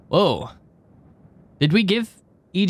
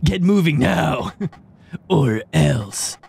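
Lucas Lee villain voice; 4 semitones lower, slower than usual. Acted. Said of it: "you know who I'm being right here? Lucas Lee".

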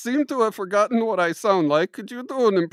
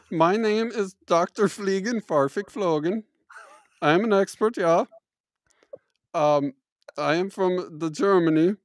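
mock German accent. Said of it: "that's why my accent goes in and out".

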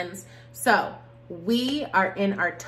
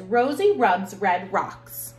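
slow careful twister; 5 dB louder, slower than usual. Shown as a demonstration. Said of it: "Tongue twister says".

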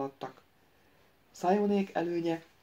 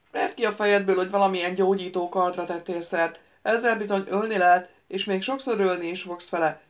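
a capricious wizard lecturing the prince; lightly voiced ghost wizard; 5 dB louder than usual. The ghost wizard lectures the prince: lightly voiced, eager.

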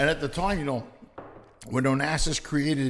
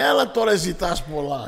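dismissive attendant; 4 semitones higher, 5 dB louder, slower than usual. Retold or imitated. Attendant brushes off passenger.

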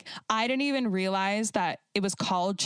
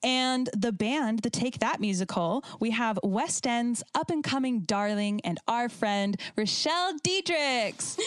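guest introduction. Real, not acted. Host presenting West End friend to listeners, announcer build-up. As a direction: announce the guest with a rising flourish.

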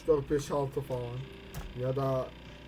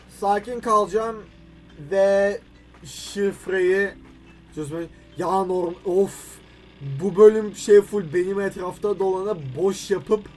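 frustrated outburst; 6 dB louder than usual. Real, not acted. Frustrated with puzzle, getting loud.

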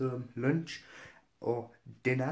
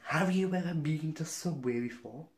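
mild mock shout; 4 semitones higher than usual. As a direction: mimic a server having a go at a customer. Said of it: "this woman shouted at my grandma".

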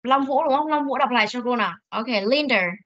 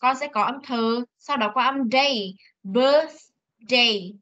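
sound by sound; much slower than usual. Shown as a demonstration. Teacher guiding a pupil through each part of birthday. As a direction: slowly build "birthday." from birth, th, day. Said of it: "khi con đọc xong âm birth".

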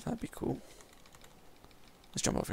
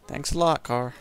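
sarcastic thanks; 5 dB louder than usual. Real, not acted. Car hits him in game.

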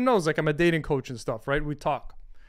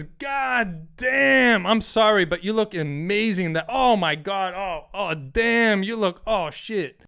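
lightly voiced smitten guy, higher; excited James; 3 semitones higher, slower than usual. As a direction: gush over her like a stunned admirer. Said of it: "James who comes in and says".

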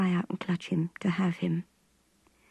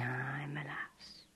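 very slow, much softer, lower whisper; slow hushed gamekeeper whisper; 5 semitones lower, 14 dB quieter, much slower than usual. A narrator's reading. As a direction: breathe it tenderly.

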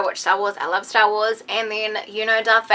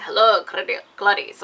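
creepy little voice. Retold or imitated. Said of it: "in his creepy little voice".

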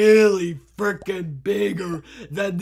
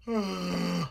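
long drawn-out voiced yawn; 7 dB quieter than usual. Real, not acted. Player pauses mid-game, yawning. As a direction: let out a long, soft yawn. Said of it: "Me was yawning".

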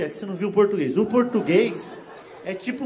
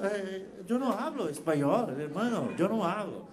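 mock Spanish; 5 dB quieter than usual. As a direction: drag out the excuse in bad Spanish. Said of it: "Então eu falo".

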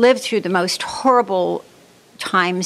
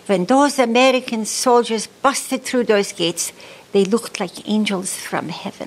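put-on slow, thick Polish accent; 3 semitones higher than usual. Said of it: "she always said it in her thick Polish accent".

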